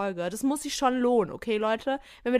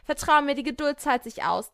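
louder, higher sure-of-herself line; self-assured promise, higher and louder; confident answer; 4 semitones higher, 4 dB louder than usual. Shown as a demonstration. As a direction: sell it with confidence. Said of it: "was hättet ihr geantwortet".

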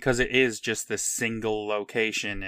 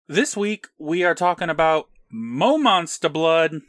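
show announcer; 5 semitones higher, 5 dB louder than usual. Real, not acted. Announcing the episode's topic.

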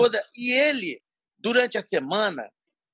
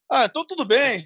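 laughing mock relief; 4 semitones higher than usual. Fininho backing down, laughing.

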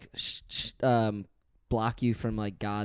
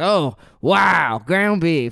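loud, higher mock amazement; Guy Fieri; 4 semitones higher, 6 dB louder, much slower than usual. Food host reacting to a plain burger, hammed-up awe. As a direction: marvel hugely at something very ordinary. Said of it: "And he's like".

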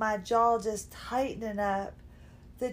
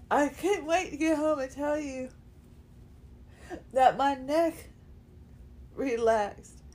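tearful, voice catching; choked up with relief; crying; 2 semitones higher than usual. Real, not acted. Wants to tell husband, crying.

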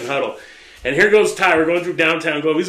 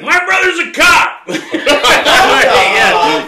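high, laughing yelp of a plea; laughing, squeaky; 9 semitones higher, 8 dB louder, much slower than usual. Retold or imitated. Drunk friend begging the cop, high and laughing. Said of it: "He's like".

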